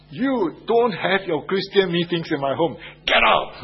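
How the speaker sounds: father shouting him out of the house; angry father. Retold or imitated. Father ordering his son's friend out of his home, angry shout. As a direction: bark the order to leave, rising to a yell. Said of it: "That was what he said to me".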